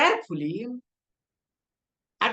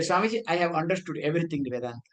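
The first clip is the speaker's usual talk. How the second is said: mock Western accent; 6 semitones lower, 3 dB quieter, much faster than usual. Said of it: "because in his accent".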